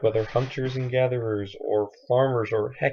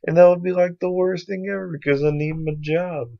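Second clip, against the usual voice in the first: high, loud mock panic; panicked worrier; 7 semitones higher, 8 dB louder than usual. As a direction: imitate someone freaking out over disaster. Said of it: "people who are like".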